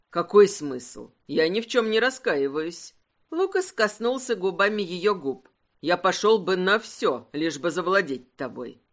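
low and sure, no regret. Acted.

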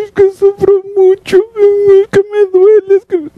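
high, drawn-out fake crying; mock bawling. Beggar whining to God about suffering, high mock bawling. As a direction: wail it high, exaggerating the sobbing whine. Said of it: "Y empieza a chillar".

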